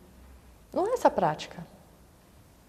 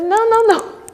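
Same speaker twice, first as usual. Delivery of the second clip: high, light repeated no; mock master; 10 semitones higher, 6 dB louder than usual. The master answering the student, high and light. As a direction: wave it off lightly.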